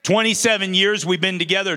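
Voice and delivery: fast, hyped-up announcement of the years; pumped up. Real, not acted. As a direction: sell it to the crowd with energy. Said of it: "really tried to even pump it up".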